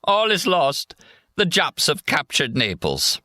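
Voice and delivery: put-on high, slow wailing drunk; drunken despair. A narrator's reading. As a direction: lament it like a drunk. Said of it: "he groans".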